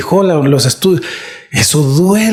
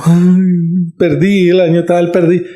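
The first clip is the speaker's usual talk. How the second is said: acted-out tearful lament; imitated weepy moan over lost time; mock crying; 2 semitones higher, slower than usual. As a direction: wail it lightly, imitating your own crying. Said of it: "me hubieras visto llorando".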